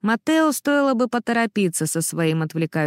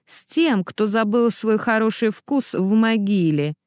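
snide jab; 2 semitones higher than usual. Acted. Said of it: "мрачно съехидничал Маттео".

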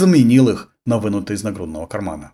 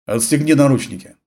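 through gritted teeth; 3 semitones higher than usual. Acted. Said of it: "сквозь зубы процедил".

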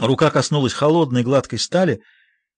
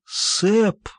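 moaning; 6 semitones higher than usual. A narrator's reading. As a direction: moan the name in anguish. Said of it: "на этот раз стон".

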